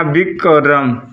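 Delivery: बिक and रम said as separate chunks; split into syllables. Shown as a demonstration. Teacher showing students a syllable, name split as बिक, रम. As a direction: break the name into बिक, then रम. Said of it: "syllable क्या हुआ".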